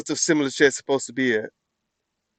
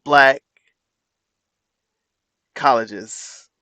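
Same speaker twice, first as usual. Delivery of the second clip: mocking Trump's delivery. Streamer mocking Trump's halting speech line, dragged-out mock delivery. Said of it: "why you gotta say it like that?".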